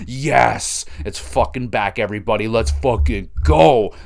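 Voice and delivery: loud hyped cheer, stretching the last words; excited celebration. Real, not acted. Fan telling everybody it is back, excited cheer.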